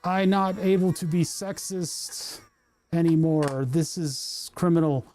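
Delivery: bewildered boomer who thinks it is 1984; lightly voiced boomer, slow and confused; boomer humor man. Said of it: "Boomer humor man says".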